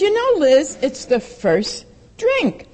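high start then slow, gentle warning; lightly voiced caring sponsor; kindly counsel. AA woman gently warning Liz about the first drink. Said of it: "she turns to me and she says".

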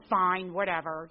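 slow, loud, dismissive shrug; flip attitude. Retold or imitated. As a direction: brush her off with a drawn-out whatever. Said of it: "with my flip attitude".

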